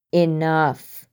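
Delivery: sharp loud cry to cut him off; yell. Acted. Scully cutting off a drunken rant, loud yell. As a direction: bark it out to stop him. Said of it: "Scully yelled".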